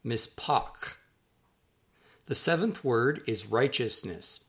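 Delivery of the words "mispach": "Mispach" said as mees-PAHK; careful Hebrew "Mispach", mees-PAHK; Hebrew pronunciation. Shown as a demonstration. Author teaching readers a Hebrew word, careful mees-PAHK. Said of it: "that's pronounced mispach".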